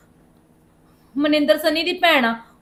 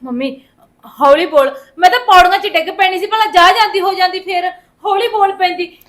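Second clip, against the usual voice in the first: raised, exasperated voice; loud scolding; 4 dB louder than usual. Acted. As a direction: scold her loudly for the racket. Daughter scolds her noisy mother.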